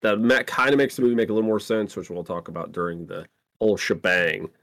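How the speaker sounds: talking while eating; speaking through a bite of food; mouth full. Real, not acted. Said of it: "do you have to keep putting stuff in your mouth".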